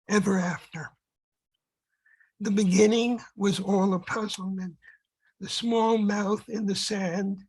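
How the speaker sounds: measured poetry recital, phrase by phrase; poem reading. Acted. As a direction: read it as verse, pausing between short phrases. Reads second poem aloud.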